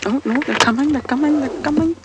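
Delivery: thrilled they're coming out; excited. Real, not acted. Presenter spotting the cubs coming out, excited.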